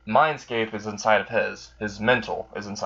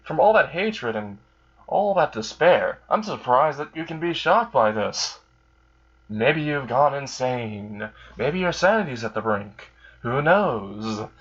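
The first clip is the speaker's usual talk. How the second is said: higher, amused and taunting; mock the victim, pitched up; lightly voiced amused Alistair, higher, slow in places; amused demon; 4 semitones higher than usual. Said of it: "Alistair laughs in amusement".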